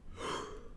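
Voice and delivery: tired sigh out of breath; breathy exhale. Real, not acted. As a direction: let out a winded sigh. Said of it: "I'm out of breath".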